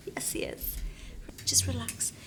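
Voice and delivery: breathy soothing whisper. Acted. Director whispering to the nervous actor, eerily soft. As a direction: hush him into calm. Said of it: "what is wrong with your voice".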